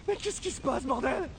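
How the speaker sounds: high, loud panic; panicked yelling. Acted. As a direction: yell out in fear. Character panics at his powers. (panique criée)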